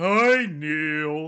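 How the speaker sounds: mock-sarcastic child voice. Acting out a five-year-old's reply in a film scene, mock-sarcastic child. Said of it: "the 5-year-olds are being sarcastic".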